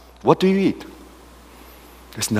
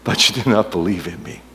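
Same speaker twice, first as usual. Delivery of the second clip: the Lord speaking. Pretend. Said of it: "especially from the Lord".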